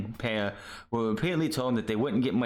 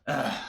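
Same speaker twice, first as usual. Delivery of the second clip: exasperated groan; 2 semitones higher than usual. Real, not acted. Fed up after his rant.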